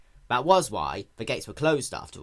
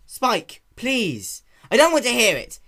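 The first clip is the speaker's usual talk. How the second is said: high, louder refined voice, begging; Rarity pleading with an angry Spike; pleading lady; 11 semitones higher, 9 dB louder than usual. Acted. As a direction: plead with him to stop.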